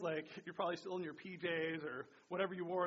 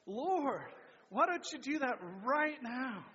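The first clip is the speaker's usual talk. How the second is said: louder group echo; congregation repeating aloud; 5 semitones higher, 5 dB louder, slower than usual. Real, not acted. Church repeats the prayer line louder together. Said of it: "let's say that".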